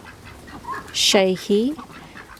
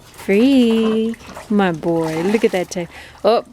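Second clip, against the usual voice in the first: pet talk. Real, not acted. Cooing at the second dog.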